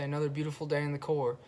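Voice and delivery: rehearsed brush-off. Retold or imitated. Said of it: "I go ahead and say".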